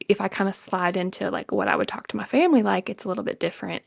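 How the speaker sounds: a hint of Southern lilt; subtle Southern accent. Shown as a demonstration. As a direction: slide lightly into a family Southern accent. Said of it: "you can hear it just a little bit subtly".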